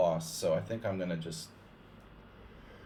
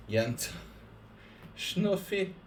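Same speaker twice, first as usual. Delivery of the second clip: high-pitched imitation of a woman with a Serbian accent; woman's voice; 11 semitones higher, much slower than usual. Shown as a demonstration. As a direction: try again at the wife's voice, pitched way up. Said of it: "it's a woman voice".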